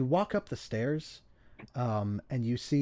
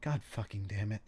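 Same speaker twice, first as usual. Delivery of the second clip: muttered curse; 2 semitones lower, 5 dB quieter, faster than usual. Acted. Game master voices Heath looking at her phone, muttered curse. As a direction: curse under your breath, mildly annoyed. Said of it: "look down at her phone suddenly and go".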